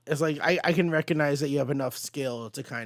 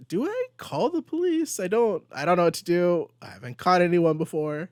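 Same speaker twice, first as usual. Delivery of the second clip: flustered Peter; 4 semitones higher than usual. Retold or imitated. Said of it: "Peter's like".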